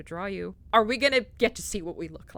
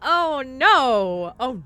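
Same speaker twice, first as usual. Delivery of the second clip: much higher, loud squeal; excited squeal; 5 semitones higher, 12 dB louder, much slower than usual. Real, not acted. Players squealing as the kiss begins, high and loud. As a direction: squeal with delight.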